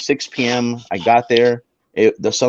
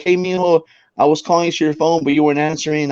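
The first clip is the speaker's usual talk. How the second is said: mom voice; 5 semitones higher than usual. Retold or imitated. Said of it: "She's like".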